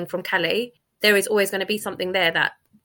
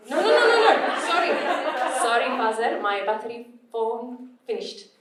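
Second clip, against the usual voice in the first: broken learner English; 4 semitones higher than usual. Retold or imitated. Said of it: "as if I'd just learned English for the first time".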